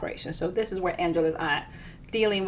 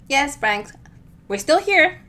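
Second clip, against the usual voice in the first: higher, louder bright phone voice; chirpy Minnie on the phone; 6 semitones higher, 7 dB louder, slower than usual. Acted. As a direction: sing it into the phone, all cheer.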